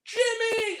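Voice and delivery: lightly voiced character yelling names; shameless movie character. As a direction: call out like a goofy thug in a film. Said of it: "looks into the camera with no shame and goes".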